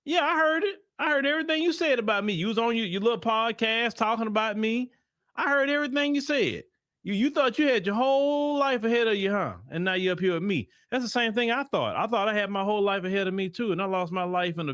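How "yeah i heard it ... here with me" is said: George Floyd waiting up there. Retold or imitated. George Floyd scolds Kirk for the podcast talk, high mocking voice. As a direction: needle him, pitched up high. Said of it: "They may be up there waiting for you and say".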